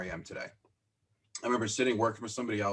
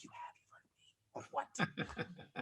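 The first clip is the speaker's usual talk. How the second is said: stunned whisper; 10 semitones higher, 14 dB quieter than usual. Retold or imitated. Stunned Stoner knows him.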